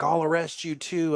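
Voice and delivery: retold threat. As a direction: lightly act out a cop threatening arrest. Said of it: "She's yelling at the cop and he's like".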